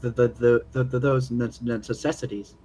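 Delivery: heavy nervous stutter; stuttering character. Acted. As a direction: stammer through every word. Character stammers while pleading.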